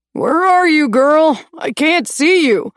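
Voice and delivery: high, loud call searching the woods. A narrator's reading. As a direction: shout to a lost girl he cannot see. Stranger calling out in woods.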